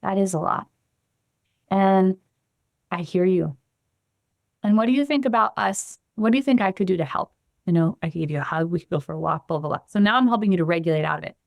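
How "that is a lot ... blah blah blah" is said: attuned voice. Shown as a demonstration. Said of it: "you notice my voice change".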